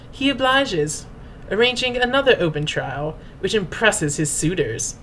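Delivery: grand, pompous storyteller's read; mock-dramatic reading. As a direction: read it like an epic saga, tongue in cheek. Mock-dramatic reading of fan headcanon.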